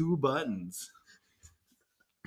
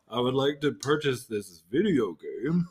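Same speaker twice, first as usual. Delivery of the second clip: lightly put-on adult customer; a hint of a phony, formal grown-up; mock-serious buyer pretending to be older; fake grown-up voice. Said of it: "Like a super deep fake voice".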